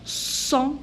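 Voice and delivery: "sont" as a long nasal son; silent T. Shown as a demonstration. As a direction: hold "sont" on the vowel, no t. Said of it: "je prononce pas la lettre T".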